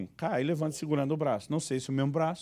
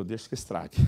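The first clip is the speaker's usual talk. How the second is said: lower, softer resigned aside; resigned mutter; 8 semitones lower, 7 dB quieter than usual. Retold or imitated. Father letting the son jump on the sofa, lower and softer. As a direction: mutter it under your breath.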